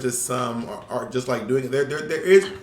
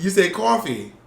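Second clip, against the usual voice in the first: laughing New York "coffee", higher; mock New York accent; 5 semitones higher, 4 dB louder than usual. Friend imitating how the other says coffee, laughing New York accent. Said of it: "You do have a New York accent".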